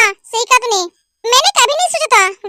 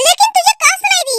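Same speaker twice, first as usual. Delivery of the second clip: angry scolding; 5 semitones higher than usual. Acted. Scolding sister's pushy lover.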